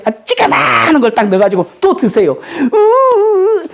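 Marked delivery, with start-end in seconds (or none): 2.7-3.7 high strained grunt of effort; straining grunt. Retold or imitated. Father lifting a small weight, grunts with effort. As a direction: grunt as if pushing up a heavy load.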